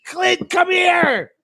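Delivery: high, slow shrieked mom call; imitating mom shouting. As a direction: yell for him like a shocked mother. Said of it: "that's my mom impression".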